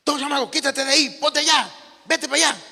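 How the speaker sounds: put-on high, loud yelling at a boy; teacher yelling. Angry teacher yelling at a schoolboy to move. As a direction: bark orders at the kid like an angry teacher. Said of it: "una maestra le empezó a gritar".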